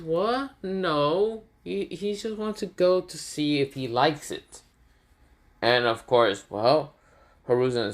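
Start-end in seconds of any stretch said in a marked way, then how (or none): 0.0-4.6 high-pitched, protesting character voice; defensive denial. Acted. Anko answers Hiruzen about the interrogation room, defensively. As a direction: jump up high, playing innocent.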